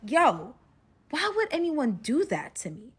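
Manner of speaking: loud, indignant complaint; acted annoyance at being wronged; retold pissed-off protest. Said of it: "I'm getting pissed off".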